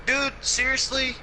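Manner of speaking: indignant comeback. Real, not acted. Mock threat after being teased.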